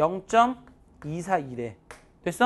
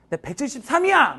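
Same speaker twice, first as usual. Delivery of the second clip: higher-pitched, insistent brag; mock boast; 6 semitones higher, 4 dB louder than usual. Teacher mimics his bachelor self bragging about height, mock boast. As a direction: play up a cocky height claim.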